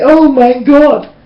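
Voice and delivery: drawn-out, throwaway "Oh my God" said high and slow; careless exclamation. Retold or imitated. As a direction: toss off "Oh my God" as an empty habit. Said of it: "And when they say".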